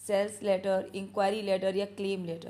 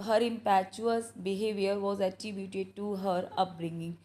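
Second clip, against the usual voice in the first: slow dictation reading; much slower than usual. Shown as a demonstration. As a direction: read the sentence out word by word, slowly. Reading question aloud slowly. (धीमे-धीमे श्रुतलेख की तरह पढ़ना)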